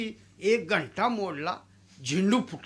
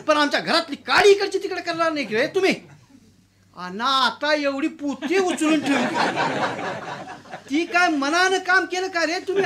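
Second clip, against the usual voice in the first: much higher and louder angry rant; furious landlord; 6 semitones higher, 4 dB louder than usual. Acted. Landlord yelling at the peon for teaching him sense, furious. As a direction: tear into the peon who dared advise.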